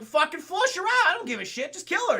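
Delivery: high, loud villain orders; mock furious order. Sharon Stone orders henchmen, furious mock command. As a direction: spit out the kill order. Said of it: "Sharon Stone's like".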